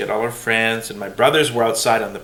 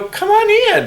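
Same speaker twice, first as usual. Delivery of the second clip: calling out; 8 dB louder than usual. Retold or imitated. Calling the maintenance guy in.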